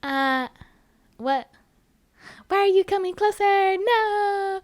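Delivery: high, fast, rising panic ending in a cry; terrified shriek. Acted. Irene backing away from Mister Saxton, terrified high shriek. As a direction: squeal it in fright as he closes in. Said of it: "Irene had a terrified look on her face".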